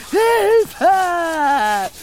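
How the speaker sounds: high, loud panicked cries for help; screaming blue murder. Acted. Friend tells him to stop screaming, panicked shouting. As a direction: yell it twice, rising in panic. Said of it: "Zeter und Mordio zu schreien".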